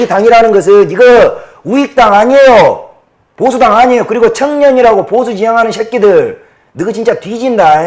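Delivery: loud, high, heated denunciation; furious ranting. Real, not acted. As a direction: yell it at the party in rage. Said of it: "제가 막 흥분을 해서".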